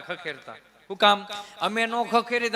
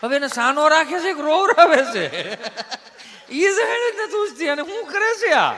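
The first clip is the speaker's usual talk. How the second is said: much higher, louder laughing exclamation; laughing outburst; 6 semitones higher, 6 dB louder than usual. Real, not acted. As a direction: crack up in disbelief. Mocking the father's hush.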